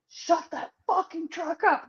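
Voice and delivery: high, slow mock yell; imitating a yelling trucker. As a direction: bellow it like an angry trucker in the night. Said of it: "Truckers are yelling".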